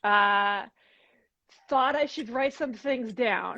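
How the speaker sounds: lightly voiced schoolgirl diary entry; a hint of a fourth grader; fourth-grader girl. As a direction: read it like a corny kid's diary, giggle partway in. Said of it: "a fourth grader girl, like".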